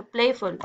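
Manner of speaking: "प्लेफुल" leaning on प्ले, falling on फुल; stress on first syllable. Shown as a demonstration. Teacher repeating the example, stress on प्ले in "प्लेफुल". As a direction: dwell briefly on प्ले in "प्लेफुल". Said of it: "प्ले पे आप रुकते हो".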